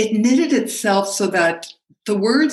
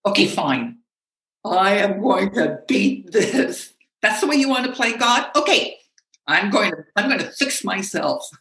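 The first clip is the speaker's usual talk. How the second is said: determined; 3 semitones higher than usual. Retold or imitated. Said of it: "And then determination".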